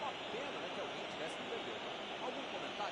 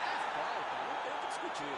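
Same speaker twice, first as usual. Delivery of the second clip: loud foul call; 6 dB louder than usual. Acted. Commentator calls a foul.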